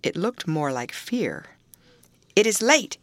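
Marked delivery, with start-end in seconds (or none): 2.3-3.0 Linton, short, halting words; short and strained. A narrator's reading. Weak boy forcing words to his late cousin, short and strained. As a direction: force it out with difficulty. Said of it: "speaking short and with difficulty".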